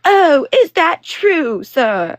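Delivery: loud, high, drawn-out mocking shout; mock screaming over. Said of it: "screaming over him, being like".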